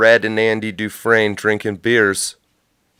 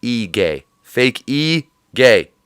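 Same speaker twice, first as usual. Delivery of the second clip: mock Mexican accent; slower than usual. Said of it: "as the Mexicans would say".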